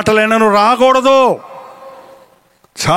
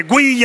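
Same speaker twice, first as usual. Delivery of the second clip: imitated dog yelp; 3 semitones higher than usual. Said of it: "అంటది".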